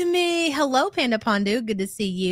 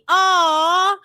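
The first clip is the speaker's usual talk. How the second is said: higher, cheering on a friend; happy whoop of support; delighted congratulations; 5 semitones higher, slower than usual. Real, not acted. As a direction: gush with congratulations, lifting to a high finish. Congratulating a viewer on grandma news.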